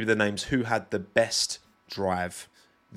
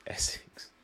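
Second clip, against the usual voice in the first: voiceless, whispered name-drop; whispered aside; 7 dB quieter than usual. Real, not acted. Naming another disliked accent, aside.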